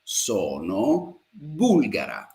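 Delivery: Sono bulgara said very slowly and evenly, falling at the end; slow model sentence. Shown as a demonstration. Teacher drilling the feminine form slowly for the class. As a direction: stretch out Sono bulgara for learners to copy. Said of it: "she's a female".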